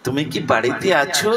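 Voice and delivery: acted gentle inquiry with a lilt; sweet-voiced calling. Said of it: "ওই সুমধুর কণ্ঠস্বর".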